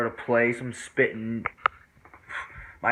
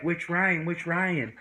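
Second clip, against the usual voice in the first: higher-pitched questioning voice; imitated friend asking; 6 semitones higher, slower than usual. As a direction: mimic her pressing for which one. Retold female friend asking back.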